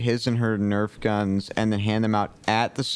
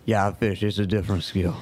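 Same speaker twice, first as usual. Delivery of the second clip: put-on Cajun accent. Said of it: "Mister Cajun Man".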